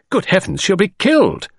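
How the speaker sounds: high, alarmed cry of fear; see the girl leap and cry out in fright; horrified cry. A narrator's reading. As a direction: gasp it out in horror. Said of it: "I cried".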